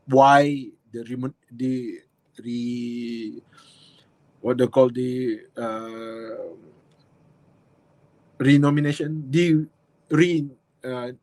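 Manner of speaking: groping for the word, stalling; halting, lost for words; brain freeze. Real, not acted. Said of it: "brain freeze right now".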